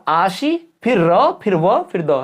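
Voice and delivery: आशी, फिर र, फिर व, फिर द slowly, each sound separate; slow teaching split of आशी from र, व and द; sound-by-sound breakdown. Shown as a demonstration. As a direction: build आशीर्वाद piece by piece, aa-shee, ra, va, da. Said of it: "ये क्या होगा?".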